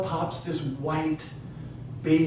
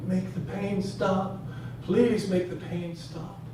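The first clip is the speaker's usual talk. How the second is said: slow, higher, imitated plea of a wife in labor; tearful pleading; 4 semitones higher, 4 dB quieter, slower than usual. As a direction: beg slowly, imitating someone in pain. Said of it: "crying ... she's saying to me".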